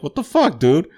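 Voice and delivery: high-pitched imitation of affronted protest; hammed-up incredulous complaint; mock disbelief. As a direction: squeal it like an offended buddy. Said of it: "their attitude was like".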